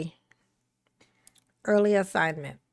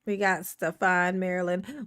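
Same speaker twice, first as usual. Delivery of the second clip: lower-pitched note to self; low musing; 4 semitones lower than usual. Real, not acted. Streamer searching for Marilyn, low musing. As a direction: mull it over low. First take, looking for Marilyn.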